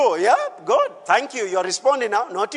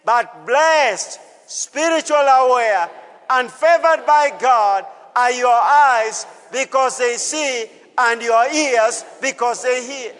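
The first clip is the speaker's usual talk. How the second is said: leading the congregation; slower than usual. Shown as a demonstration. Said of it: "Can you say it?".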